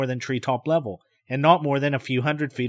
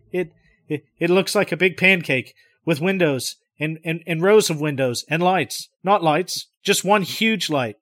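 hesitant; 3 semitones higher than usual. Acted. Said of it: "very hesitantly".

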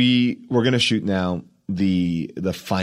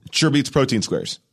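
line reading demo; 5 semitones higher than usual. Shown as a demonstration. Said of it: "say it for me".

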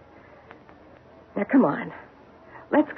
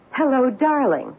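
surprised greeting; 4 semitones higher than usual. Retold or imitated. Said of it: "as if she were expecting someone else".

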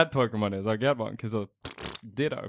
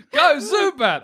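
trainer battle cry; 9 semitones higher, 3 dB louder, slower than usual. Acted. Battle cry throwing paper bag.

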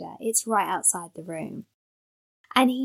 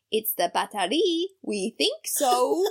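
dad's hammed-up French accent, drawn out at the end; mock French accent; 3 semitones higher than usual. Dad trying French at the garage, mock French accent. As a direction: imitate dad's clumsy attempt at French. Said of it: "in a French accent".

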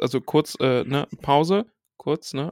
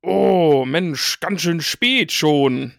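sighing, drawn-out stalling father; evasive dad; 3 dB louder, much slower than usual. Pretend. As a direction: stall like a dad dodging a talk. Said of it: "ich bin ja jetzt quasi Daddy Morgoth".

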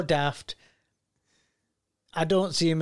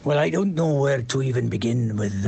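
accidental Anthony Hopkins; 2 semitones lower than usual. Acted. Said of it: "I sound like Anthony Hopkins there".

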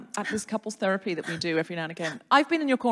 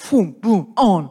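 brisk Italian technician; 8 dB louder, much slower than usual. Acted.

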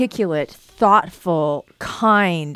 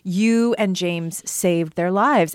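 slow emphatic; much slower than usual. Real, not acted. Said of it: "I say it every time".

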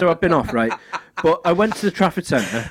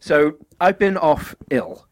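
blocked nose from a cold; sniffly voice; 4 semitones lower than usual. Real, not acted. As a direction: talk through a stuffy nose. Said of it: "as you can probably tell from the sniffly voice".

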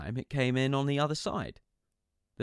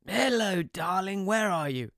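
high, bright fatherly phone voice; doting dad answering the phone; cheery dad; 9 semitones higher, 5 dB louder than usual. Retold or imitated.

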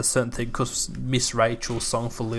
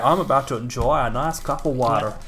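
put-on American accent. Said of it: "how an American would say it".

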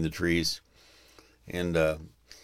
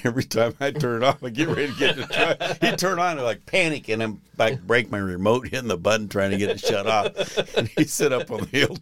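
laughing; 4 semitones higher than usual. Real, not acted. Laughing while telling tram story.

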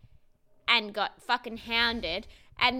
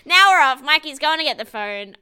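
excited announcing; 2 semitones higher, 11 dB louder than usual. Real, not acted. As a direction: call it out loud, thrilled at the drama. Excited as the drama kicks off.

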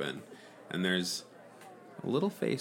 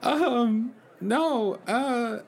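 Mickey the Rat voice; 13 semitones higher, 4 dB louder, much slower than usual. Acted. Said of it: "work on your Mickey the Rat impression".

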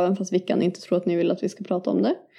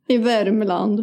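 imitated Värmland dialect; Värmland accent; much slower than usual. Echoing the co-host's sausage line, Värmland accent. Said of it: "Det är lite värmländska".

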